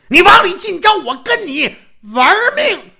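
high, loud furious shout; enraged challenge. Acted. Enraged swordsman challenging Sun Jin to fight, loud furious shout. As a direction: bellow the challenge, ready to fight to the death. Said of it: "经变给气昏过去了".

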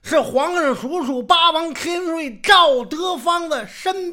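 very high, slow, proud announcement; grand proclamation. Acted. Old man proudly announces his title, high and slow. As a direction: proclaim your rank with pomp.

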